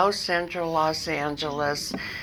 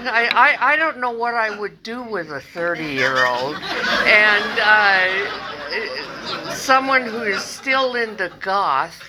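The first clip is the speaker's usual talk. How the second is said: laughing; 4 semitones higher, 4 dB louder than usual. Real, not acted. Laughing while recalling the man.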